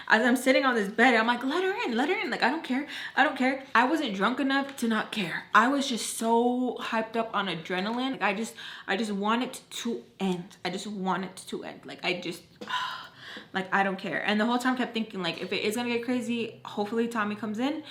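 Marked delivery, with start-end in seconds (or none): 1.4-3.6 high-pitched, hyped-up urging; retold reckless insistence. Retold hyped-up demand at door. 12.6-13.5 heavy, soft exhale; exasperated sigh. Retold or imitated. Exasperated wish for it to end.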